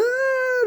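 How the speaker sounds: very high "ah" mimicking an outburst of laughing; imitated burst of laughter. Sergeants cracking up after whispering, high imitated outburst. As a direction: squeal it like sudden laughter. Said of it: "they start laughing".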